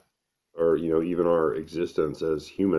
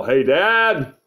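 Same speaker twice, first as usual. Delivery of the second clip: loud, high yell of "Dad"; high-pitched mocking holler; 10 semitones higher, 7 dB louder than usual. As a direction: yell it out in imitation of a kid bursting in. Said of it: "walk in the door and yell".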